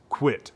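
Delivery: quick quit at the call's front; duck quack, front of call. Shown as a demonstration. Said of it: "when you put that in the front of the call, it's gonna sound like this".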